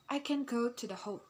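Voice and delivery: tune drops on "home" at the end; falling intonation. Shown as a demonstration. Teacher demonstrating falling intonation, voice dropping on "home". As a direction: let the pitch fall through to "home". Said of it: "example of falling intonation".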